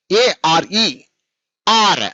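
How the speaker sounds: ఏఆర్ఈ run together as one unit; joined letters. Shown as a demonstration. Teacher modelling for pupils how to say it, ఏఆర్ఈ joined without breaks. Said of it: "చెప్పేటప్పుడు ఎలా చెప్పాలి".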